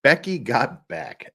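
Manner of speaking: slow, drawn-out Becky got back; mild mock catchphrase; quoted catchphrase. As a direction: stretch the line like a quote. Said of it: "as the statement goes".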